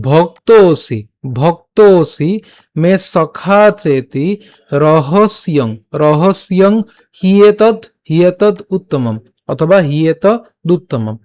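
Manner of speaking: "ভক্তোসি" as one word with a long o; slow spoken model of "সখা চেতি"; pronunciation demo. Shown as a demonstration. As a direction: sound out "হিয়েতদ উত্তমম" piece by piece. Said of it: "উচ্চারণ কেমন হচ্ছে".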